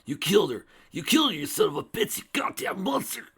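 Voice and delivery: high, loud enraged cry, pitch rising; furious screaming. A narrator's reading. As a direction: scream at the killer with everything. Spike attacks his love's killer.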